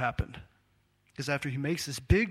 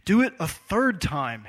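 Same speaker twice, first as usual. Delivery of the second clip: firm order; 4 semitones higher, 7 dB louder than usual. Retold or imitated. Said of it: "he ordered".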